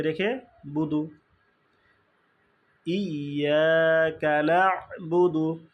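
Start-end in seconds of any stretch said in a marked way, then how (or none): 2.9-5.7 ইয়াকা না'বুদু recited slowly with the আইন stop; slow recitation. Shown as a demonstration. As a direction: chant it slowly and clearly. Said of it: "আমরা পড়ে ফেলি".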